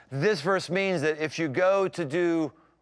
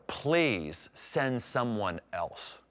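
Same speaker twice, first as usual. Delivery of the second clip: pleading Moses; 5 semitones lower, 4 dB quieter, much slower than usual. Retold or imitated. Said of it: "Moses says in Exodus".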